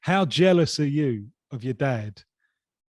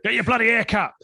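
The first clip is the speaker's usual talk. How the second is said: bad Irish accent; 7 semitones higher, 3 dB louder than usual. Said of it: "I can't do the Irish accent".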